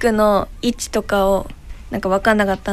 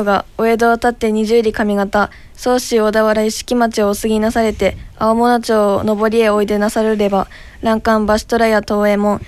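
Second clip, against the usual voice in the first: uiro-uri recitation. Shown as a demonstration. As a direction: read the old merchant's speech carefully, syllable by syllable. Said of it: "モネちゃんもやってみようか。".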